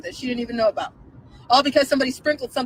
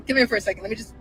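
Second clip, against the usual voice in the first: mock coaxing hush; 4 semitones lower, 5 dB quieter, faster than usual. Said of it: "do an impression of what I feel like they sound like".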